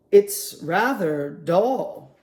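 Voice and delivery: slow, bored big penguin. Acted. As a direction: drag it out with mild boredom. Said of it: "the biggest penguin said".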